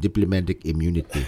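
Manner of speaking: lightly put-on South African accent. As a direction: repeat the film line with a South African lilt. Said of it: "say it in my South African voice".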